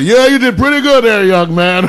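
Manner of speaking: a father pleased with his prank; the dad praising the exhausted date, smug; imitating the dad. Dad voiced in retold story.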